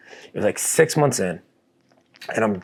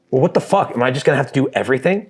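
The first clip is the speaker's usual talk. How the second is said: frustrated; 4 semitones higher, faster than usual. Retold or imitated. Retold frustration over groceries.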